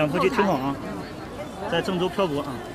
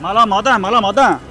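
hawking call; 5 dB louder than usual. Pretend. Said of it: "吆喝起来".

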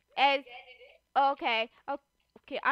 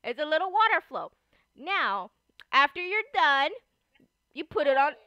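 play cooking teacher; 6 dB louder than usual. Pretend.

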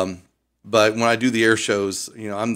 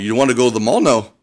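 light imitation of Louisiana locals, a bit louder; Louisiana accent; 5 dB louder than usual. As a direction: mimic a Louisiana exchange about the mall. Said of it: "they say things backwards 'cause they're French".

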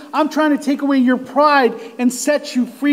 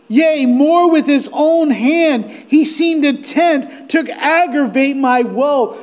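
raised, mildly anguished recitation; despairing cry; 3 semitones higher, 3 dB louder than usual. Acted. Preacher reads a sufferer's verse to the congregation, mildly despairing. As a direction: declaim it with a touch of despair. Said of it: "the cry and despair in his voice".

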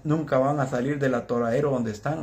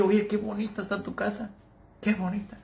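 soft admiring; 4 semitones higher, 6 dB quieter than usual. Retold or imitated. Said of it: "yo le dije".

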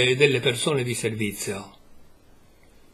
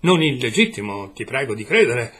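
exclaimed; 6 dB louder than usual. A narrator's reading. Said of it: "esclamò".

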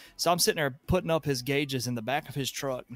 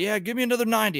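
higher, louder gruff demand; 8 semitones higher, 5 dB louder, faster than usual. Retold or imitated. Plumber ordering another fitting, gruff. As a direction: order it like a grumpy boss.

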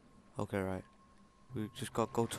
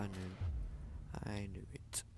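whispered, defeated; resigned whisper; 7 semitones lower, 10 dB quieter, much slower than usual. Real, not acted. Gamer resigned to dying, whispered. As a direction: breathe it out in defeat.

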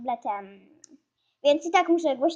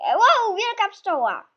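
loud, high wow of surprise; amazed exclamation; 6 semitones higher, 7 dB louder, slower than usual. Real, not acted. Gamer spots a huge bee, amazed exclamation. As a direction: exclaim in amazement, pitch jumping up.

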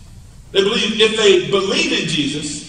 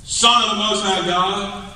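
shouting demon; 4 semitones higher, slower than usual. Acted. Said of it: "shouting at the top of his voice".

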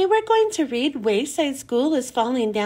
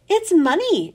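mild exclaim; 3 semitones higher than usual. Acted. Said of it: "exclaimed Mauricia".

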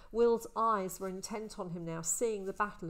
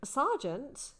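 higher, louder bewildered question; confused; 6 semitones higher, 6 dB louder than usual. A narrator's reading. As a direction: ask in stunned confusion. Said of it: "in a confused voice".

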